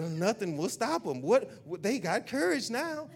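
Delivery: high, squeaky little devil voice, slow at the end; pipsqueak devil. Retold or imitated. Pastor mocking the devil as a squeaky little pipsqueak. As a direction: whine like a tiny panicked devil. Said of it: "that's how he talk, he a little pipsqueak".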